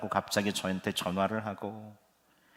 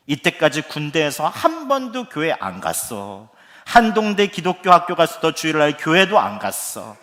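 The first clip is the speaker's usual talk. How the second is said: louder, rising grievance, a hint of a bitter laugh at the end; son's complaint; 3 semitones higher, 8 dB louder than usual. Soldier son blaming his pastor father, loud complaint. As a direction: unload years of frustration on dad.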